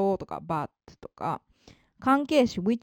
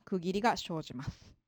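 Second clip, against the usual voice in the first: whispered aside; 3 semitones lower, 6 dB quieter than usual. Real, not acted. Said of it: "unvoiced whisper".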